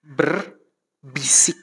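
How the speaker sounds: slow unvoiced whisper; whispered demonstration of munajat. Shown as a demonstration. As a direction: breathe the word like a secret. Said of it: "Apa artinya munajat".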